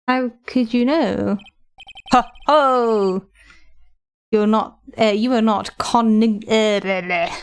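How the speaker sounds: talking around a retainer; words slurred by a retainer; wearing a retainer. Real, not acted. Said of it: "Trying to say any words with my retainers in is really bad".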